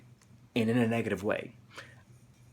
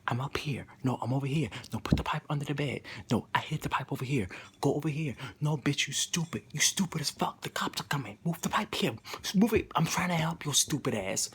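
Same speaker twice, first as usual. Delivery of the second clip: hushed urgent voice, half-whispered at first, growing more insistent; tormenting voice; 2 semitones higher than usual. Retold or imitated. Inner voice warning that the cops are coming, imitated as hushed, urgent badgering. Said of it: "This voice was tormenting me".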